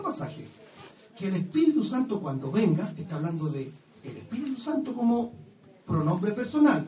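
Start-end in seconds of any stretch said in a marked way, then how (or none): none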